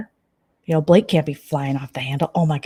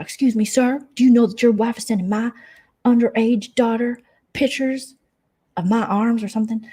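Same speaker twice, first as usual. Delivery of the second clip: mock prim challenge; 5 semitones higher than usual. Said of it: "Jen Bailey's like".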